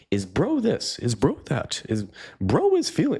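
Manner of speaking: whiny-mocking imitation of bro-speak, pitch jumping up. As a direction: parody the bros who overuse the word. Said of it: "all of the incessant bros".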